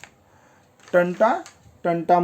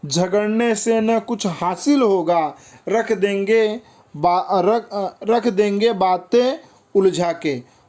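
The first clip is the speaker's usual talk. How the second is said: higher, slowed verse reading; poem recitation; 4 semitones higher than usual. Acted. Teacher quoting the verse against quarrelling, poem recitation. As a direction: recite the couplet in measured phrases.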